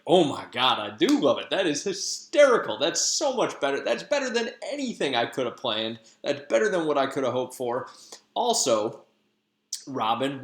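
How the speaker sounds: cackling with delight at the plan; delighted Oberon. Retold or imitated.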